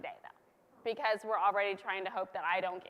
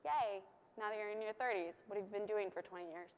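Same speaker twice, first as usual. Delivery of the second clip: a mock-sweet God gushing over his late son; God doting on Jesus; 7 dB quieter than usual. God cooing softly at Jesus, mock-sweet. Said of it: "And God says".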